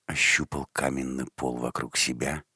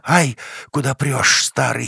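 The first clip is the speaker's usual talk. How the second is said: high, loud squeal of protest; shrill indignant girl; 11 semitones higher, 10 dB louder than usual. A narrator's reading. Trodden-on girl squeals at old man in the dark. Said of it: "визгливо возмутилась темнота".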